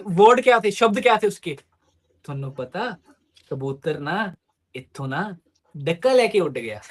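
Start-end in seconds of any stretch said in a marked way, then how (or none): 2.3-6.8 a hint of a teen girl cooing to her boyfriend; childish girl talk. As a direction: mimic a grown woman talking like a little girl. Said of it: "सोलह साल की बच्चियों जैसे बात कर रही है".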